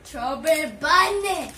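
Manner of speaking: slow, garbled through marshmallows; words mashed by a full mouth. Real, not acted. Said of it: "You can't even hear".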